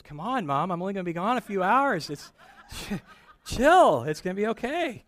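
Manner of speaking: put-on a kid brushing off mom's worry, up and bright on "chill"; kindergartner reassuring mom. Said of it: "finally the five-year-old says".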